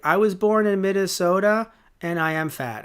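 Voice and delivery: loud, high proclamation, imitating a show character; lightly voiced boastful character; mock character announcement. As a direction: declare it like a hammed-up introduction. Mimicking the Minnesota fat character's introduction.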